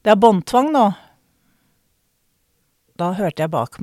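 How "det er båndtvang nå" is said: retold indignant shout, loud and higher; raised-voice telling-off, as retold; calling out. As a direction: call out a reprimand to a dog owner. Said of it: "Jeg ropte ut".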